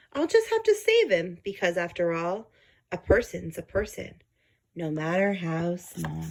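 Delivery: lightly voiced thoughtful elephant; Horton musing. Horton reasons about the tiny creature, lightly voiced musing. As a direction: wonder aloud, then resolve. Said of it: "murmured Horton".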